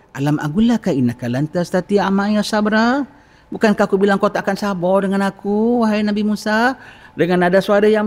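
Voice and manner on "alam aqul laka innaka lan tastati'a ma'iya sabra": gentle. Shown as a demonstration. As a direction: remind him kindly, as a loving friend. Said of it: "Kau kena cakap dengan suara lembut". (Khidir menegur Musa dengan lembut)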